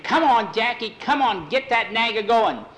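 high loud cheering; high excited shout urging the rider. Acted. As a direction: yell them on from the rail. Cheering a horse race.

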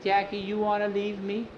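high, thin-timbred character voice; small high-pitched pleading; plaintive Juby character. Acted.

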